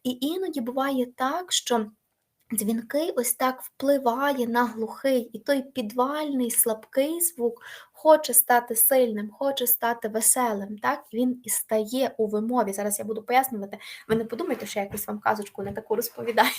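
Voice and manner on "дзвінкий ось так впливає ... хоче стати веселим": slow, deliberate teacher explanation; slow explaining. Shown as a demonstration. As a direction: spell it out slowly for the pupils. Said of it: "teacher explains slowly". (повільне пояснення)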